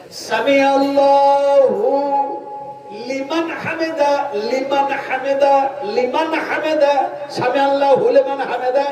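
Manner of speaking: drawn-out, chanted সামি আল্লাহু লিমান হামিদা; slow prayer recitation. Shown as a demonstration. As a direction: draw it out reverently, word by word. Demonstrates the proper recitation.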